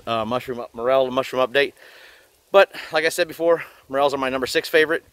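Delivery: muffled through a bug mask; through a face mask. Real, not acted. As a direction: talk behind a mosquito mask. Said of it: "I got this mask on my face".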